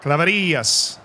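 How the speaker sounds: Claverillas with the I stressed and held. Shown as a demonstration. Showing chat how to say his name, Claverillas stressed on the I. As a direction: lean on the accented I in Claverillas. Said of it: "He has an accent on the I".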